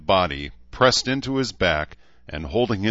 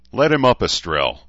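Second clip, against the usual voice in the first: lightly voiced gunnery sergeant, louder and higher at first; gunny voice; 5 semitones higher, 7 dB louder than usual. A narrator's reading. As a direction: give the order like a gunny, falling back on the name. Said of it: "in his most gunny voice".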